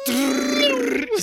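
very high, slow squeak; squeaky high voice. Pretend. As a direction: squeak it like a cartoon. Roadrunner image, squeaky.

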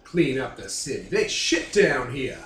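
lightly put-on Louisiana hillbilly drawl, menacing; a hint of a Louisiana swamp thug. Gang boss grilling a cop, light Louisiana hillbilly accent. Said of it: "I'm trying to do Louisiana hillbilly".

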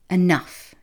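loud, sharp cutoff; snapped. A narrator's reading. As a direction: snap it like a cross toddler. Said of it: "Jack snapped".

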